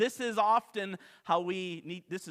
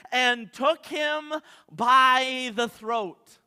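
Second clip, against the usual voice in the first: slow, loud, raised read; dramatic reading; 5 semitones higher, 9 dB louder, much slower than usual. Acted. Pastor reading the throat-grab verse, slow and loud. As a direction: lean hard into each word.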